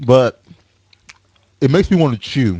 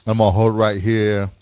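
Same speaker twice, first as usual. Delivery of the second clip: talking around a mint; speaking with candy held in lip; mouth full. Real, not acted. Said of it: "let me be a Kentuckian".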